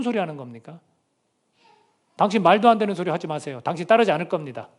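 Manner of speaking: mildly indignant, acted-out objection; heated protest. Peter arguing back at Jesus, acted heated protest. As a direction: play a disciple objecting with some heat. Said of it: "조금 더 과격하게 한번 표현해 볼까요".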